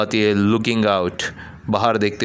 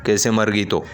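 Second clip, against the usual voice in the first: angry. Acted. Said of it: "फिर से गुस्से में बोलता है".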